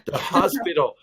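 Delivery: "hospital" with a deliberate H; H forced in. Retold or imitated. Newcomer finally making Americans understand, H sounded in "hospital". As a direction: push out the H in "hospital". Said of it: "I would say".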